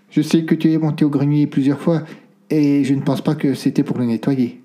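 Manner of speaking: lightly voiced old woman, on a sigh; a touch of a weary grandmother letting it out; understated sigh of an old lady. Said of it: "lança-t-elle dans un soupir".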